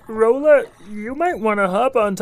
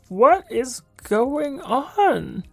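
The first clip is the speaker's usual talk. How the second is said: puzzled; much slower than usual. Acted. Character reacts to water.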